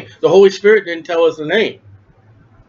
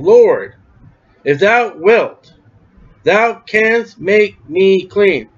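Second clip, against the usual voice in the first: pleading; 2 semitones higher, much slower than usual. Retold or imitated. Leper's plea read out.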